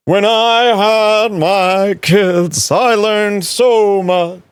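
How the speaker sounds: very slow, drawn-out mock wise-father voice; mocking his talk. Streamer imitating a comedian who got wise from kids, very slow mocking drawl. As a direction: stretch it out like a self-serious sage. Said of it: "He talks like this now".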